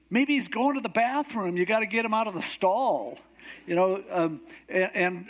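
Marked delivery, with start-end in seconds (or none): 0.1-3.2 mock taunting. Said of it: "it gets worse. He goes".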